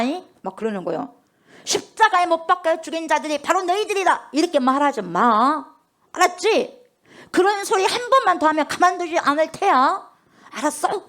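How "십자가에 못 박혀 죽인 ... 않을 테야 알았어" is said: lightly voiced priest warning the apostles; menacing threat. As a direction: priest bullying the apostles into silence, mildly threatening. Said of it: "이렇게 막 무섭게 엄포를 내고 하는 거예요".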